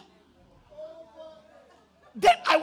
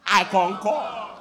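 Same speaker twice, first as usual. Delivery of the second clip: mock brother drawl; 3 semitones lower, 8 dB louder, much slower than usual. Anything I say, he say.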